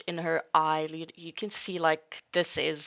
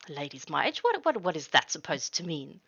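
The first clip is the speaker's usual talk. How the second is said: put-on offended old lady. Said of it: "a scowl at that".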